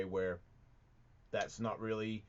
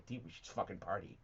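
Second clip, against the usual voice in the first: quiet mock surfer-dude American; a lightly done dumb-dude impression; squeaky dude voice; 5 semitones lower, 9 dB quieter, faster than usual. Making fun of a partying dude, quiet squeaky mockery. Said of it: "the squeaky one".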